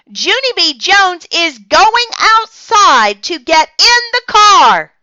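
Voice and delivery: singsong shout to a mother in another room; loud calling. A narrator's reading. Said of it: "I shouted louder".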